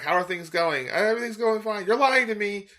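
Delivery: voicing the characters high; high character voices. Acting out dialogue exchange.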